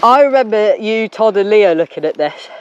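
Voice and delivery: stuffy nose from a cold; talking through a blocked nose. Real, not acted. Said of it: "Not starting to talk like this".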